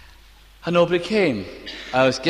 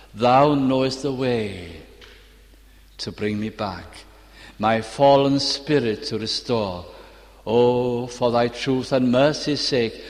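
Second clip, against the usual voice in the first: hymn recitation; slower than usual. Shown as a demonstration. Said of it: "Now this is the line".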